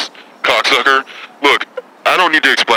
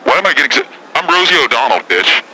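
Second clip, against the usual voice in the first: higher-pitched, indignant comeback; pissed off; 5 semitones higher than usual. Acted. Caller rounds on radio host for asking, pissed off. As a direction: bristle at being questioned, pitch jumping up. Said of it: "I stay pissed off".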